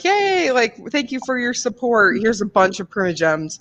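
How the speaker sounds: high, bubbly mock gratitude, lightly voiced; imitating a cheery thank-you. Quoting the game makers' letter, high cheery thanks. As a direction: chirp it like a grateful company note. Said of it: "they're like".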